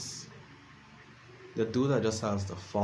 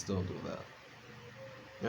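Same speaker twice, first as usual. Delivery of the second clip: slow, hushed whisper of "Don't do that"; slow conspiratorial whisper; whispered warning; 2 semitones lower, 10 dB quieter, much slower than usual. Acted. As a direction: lean in and whisper it like a secret warning. Warning after confessing phone habit.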